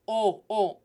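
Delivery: short, pure Spanish O, O; closed O. Shown as a demonstration. Teacher modelling the Spanish vowel, closed O. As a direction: round O tightly, no English "ah". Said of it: "It's closed".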